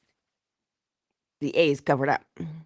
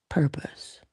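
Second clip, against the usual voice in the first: whispered key word; 3 dB quieter than usual. Acted. Speaker urging listeners with a whispered word.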